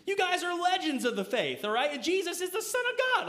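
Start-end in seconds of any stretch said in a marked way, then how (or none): 1.9-3.3 sarcastic emphasis. Real, not acted. Sarcastic aside to apostles.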